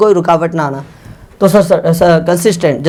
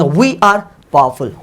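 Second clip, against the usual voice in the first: slow dictation; 4 semitones lower, much slower than usual. Shown as a demonstration. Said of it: "तो हम कहेंगे".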